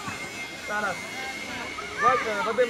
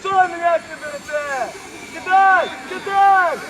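raised, carrying shouts; urgent calling out; slower than usual. Real, not acted. Urging a player to throw the ball, raised urgent shout. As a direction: call commands across the field.

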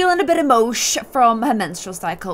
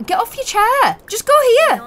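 high, louder nagging order; frustrated shout at the Sim; exasperated command; 12 semitones higher, 5 dB louder than usual. Real, not acted. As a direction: boss the stuck Sim. Scolding stuck Sim.

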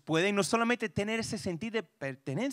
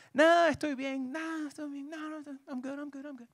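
put-on higher, fading dismissive teen; teen son brushing off; 6 semitones higher than usual. Son refusing breakfast from his dad, higher fading brush-off. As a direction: wave dad off, voice trailing away.

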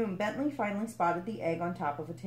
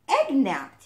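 high, loud alarmed cry; 7 semitones higher, 9 dB louder than usual. A narrator's reading. Frog crying out that his egg was stolen, loud alarmed cry. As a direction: shout it out in shock. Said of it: "he cried".

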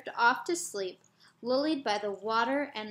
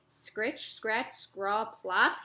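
a sleepy father humoring his son; tired sigh; much slower than usual. Acted. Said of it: "he sighs".

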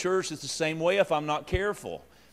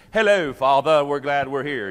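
mock polite kids; 6 dB louder than usual. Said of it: "Sunday best".

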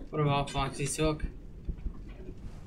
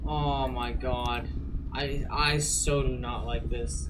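scared horror game streamer; 5 semitones lower, slower than usual. Real, not acted.

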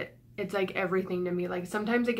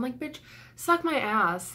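slow, pointed put-down, pitch raised; angry retort; 4 semitones higher, slower than usual. Real, not acted. To a comment stalker, a slow higher scornful retort. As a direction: spit it out at the commenter, drawn out. Snapping back at a hater.

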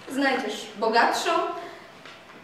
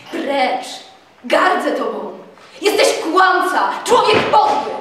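furious insults; 3 semitones higher, 9 dB louder than usual. A narrator's reading. Telimena scorning Tadeusz, rising to a furious shout. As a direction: spit the insults at him.

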